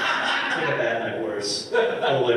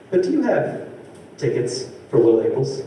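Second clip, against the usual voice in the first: retold polite question. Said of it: "I go".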